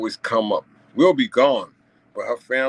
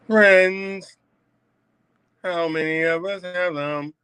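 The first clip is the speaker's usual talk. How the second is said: rhetorical exclaim; 9 semitones higher, 3 dB louder, much slower than usual. Real, not acted.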